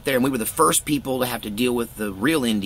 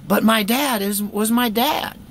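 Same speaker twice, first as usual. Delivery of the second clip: high, loud heartfelt claim; emphatic insistence; 12 semitones higher, 6 dB louder, slower than usual. Real, not acted. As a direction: insist he was your dad, voice rising. Emotional insistence on father.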